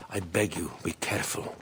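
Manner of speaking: soft, unvoiced urgent whisper; hushed warning. Ally whispering a warning to Aya, hushed urgency. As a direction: breathe the warning close.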